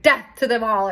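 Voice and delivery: retelling the line with half-laughing intensity; mock intense declaration. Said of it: "It was so intense".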